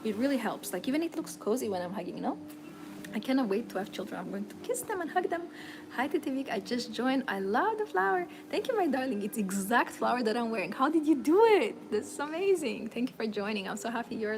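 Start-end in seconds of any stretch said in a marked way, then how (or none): none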